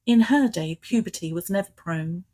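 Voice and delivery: measured poetry reading, pausing after each line; poem recital. Acted. Poet reads her autobiographical poem on request to the host, measured recital. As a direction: recite it in even, metred phrases with deliberate breaks.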